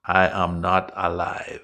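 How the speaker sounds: "I am not alive" low, each word separated; word-by-word prompt. Shown as a demonstration. Repeats phrase word by word.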